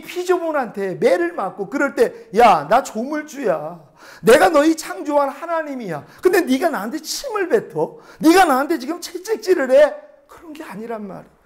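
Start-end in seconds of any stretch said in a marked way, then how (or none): 2.4-9.9 acted indignation, mostly high-pitched; indignant divine protest. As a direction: protest as the offended Creator, pitch raised. 피조물에게 맞은 하나님의 말을 연기. (분개한 조물주를 흉내 낸 높은 어조)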